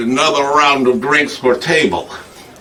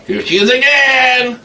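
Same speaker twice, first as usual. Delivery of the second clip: repeated louder; 8 semitones higher than usual. Retold or imitated. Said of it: "they're police".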